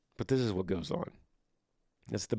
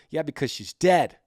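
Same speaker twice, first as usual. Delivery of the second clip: blunt, louder comeback; exasperated retort; 3 semitones higher, 5 dB louder than usual. Acted. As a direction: hit back at the other side, mildly exasperated. Brain's two sides arguing.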